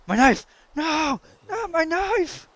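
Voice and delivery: high, loud, drawn-out mock wail; mock despair. Gamer loses his favourite knife, hammed-up wail. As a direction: ham up the tragic loss.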